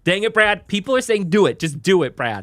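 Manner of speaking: high, loud squeaky pleading; chipmunk voice. Pretend. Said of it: "the chipmunk voice doesn't change what we're doing".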